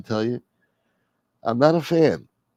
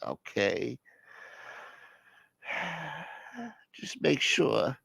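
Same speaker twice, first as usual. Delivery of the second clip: mollified caller; 5 semitones higher, 11 dB quieter, much slower than usual. Acted. Mollified caller at end of skit.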